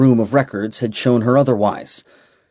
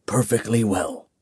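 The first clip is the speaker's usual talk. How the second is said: hushed, gentle reveal; soft whisper; 5 dB quieter than usual. Acted. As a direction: drop the voice to a near whisper. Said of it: "Bors whispered".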